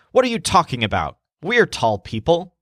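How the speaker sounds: quick, slightly indignant comeback; mild retort. Acted. Joel answers the shopkeeper's accusation, mild retort. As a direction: answer back promptly, mildly put out. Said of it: "So Joel retorts".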